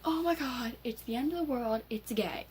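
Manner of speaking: loud, high-pitched hammed-up panic; exaggerated outcry mocking their reaction; mock freak-out. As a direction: imitate hysterical shrieking, high and loud. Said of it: "having spaz attacks like".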